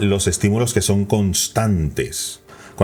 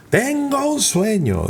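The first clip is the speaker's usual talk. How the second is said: "Tengo un sueño" starting far higher, slow and falling; dynamic rising tone; slower than usual. Shown as a demonstration. Coach showing the lively speech melody. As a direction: lift "Tengo" high and let "sueño" sweep down. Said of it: "y van subiendo y bajando el tono".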